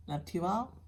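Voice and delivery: whispered sign-off to viewers. Real, not acted. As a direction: breathe it out as a hushed farewell.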